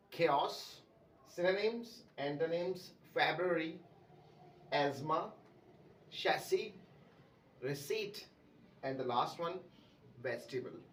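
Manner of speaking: chaos, synonyms, antonyms, February, asthma, chassis, receipt, vegetable all said correctly; correct pronunciations recap. Shown as a demonstration. Teacher recapping the correct list for students. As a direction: run through the correct forms one by one. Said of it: "तो सही pronunciation word की क्या है".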